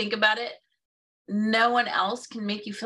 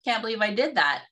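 high-pitched jokey disbelief at yourself; self-mocking, laughing it off; 5 semitones higher than usual. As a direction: make light of your own blunder, pitched up. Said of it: "you laugh about it and you go".

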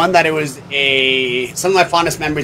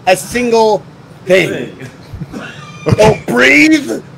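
frantic shouting hostage taker; 5 semitones higher than usual. Pretend. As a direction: play the jumpy stickup man. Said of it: "Nobody move".

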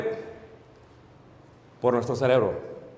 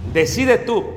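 wife's real meaning; 4 semitones higher than usual. Retold or imitated. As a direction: spell out what she really wants. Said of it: "Lo que la mujer realmente dijo".

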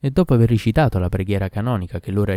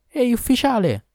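much higher, loud desperate call; girl cries out; 4 dB louder than usual. A narrator's reading. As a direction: call out to stop him. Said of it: "gridò la fanciulla". (la fanciulla grida all'ufficiale, acuta e disperata)

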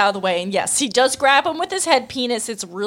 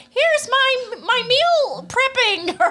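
high, slow, breathy-free vlogger voice; mock influencer chirp, drawn out; slower than usual. Podcaster mocking Goku as a fitness influencer, high and slow.

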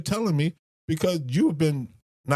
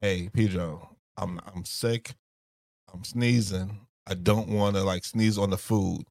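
polite sick request; 7 semitones lower, slower than usual. Shown as a demonstration. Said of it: "All you had to say was".

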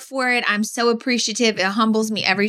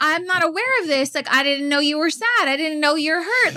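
higher, earnest voice of not having known; acted concern; 5 semitones higher than usual. Wife acts out her reaction to someone hurting, concerned. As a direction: plead innocent concern, pitched up. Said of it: "I'm more concerned".

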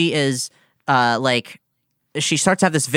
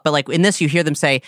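normal talking voice

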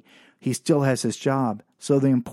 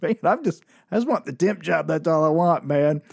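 laughing plea; 3 semitones higher than usual. Retold or imitated. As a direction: laugh it off nervously. Pleading with laugh.

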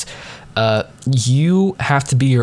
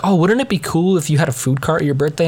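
aunt-in-law's pitch, lightly imitated, higher; lightly voiced higher-pitched coaxing; retold eager suggestion; 5 semitones higher than usual. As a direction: float the idea in a raised, mimicking voice. Voicing aunt-in-law pitching an idea.

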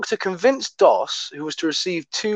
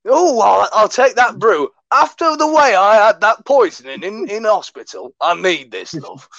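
put-on Yorkshire accent; 4 semitones higher, 4 dB louder than usual. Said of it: "I sound like a Yorkshireman".

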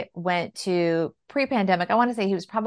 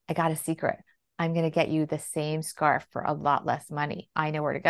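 put-on low, soft conspiratorial kid; imitating a child's hushed scheming; secretive; 4 semitones lower, 5 dB quieter than usual. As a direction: confide it quietly, as if sharing a secret. Child confiding a secret to mom.

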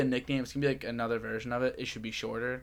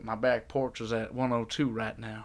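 slow Southern drawl; lightly imitated Southern accent. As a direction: quote a Southern coworker, drawn out. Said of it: "You had a great Southern accent".

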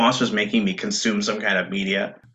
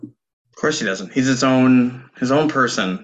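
dry mocking sarcasm; sarcastic; 2 semitones higher than usual. Real, not acted. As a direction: say it with an eye-roll.

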